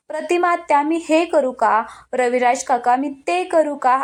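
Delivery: mock her as a fake sweet girl asking permission; mocking fake sweetness. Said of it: "असं नाटकीपणाने वागते ना".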